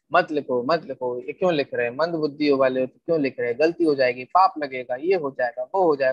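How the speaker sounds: lightly mimicked naysayers, low-pitched run of objections; nagging objectors. Acting out objectors' repeated nagging. (टोकने वालों की हल्की नकल, नीची आवाज़ में)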